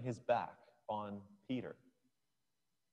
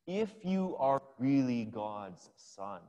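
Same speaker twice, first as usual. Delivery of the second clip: tempter's voice; 4 dB louder, slower than usual. Retold or imitated. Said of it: "said the devil".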